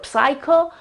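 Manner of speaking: "psycho" with P sounded and a short final aw; wrong, short ending. Shown as a demonstration. Teacher shows a second wrong version, sounded P. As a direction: say "psycho" as p-sy-kaw, P audible. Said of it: "or psycho is wrong".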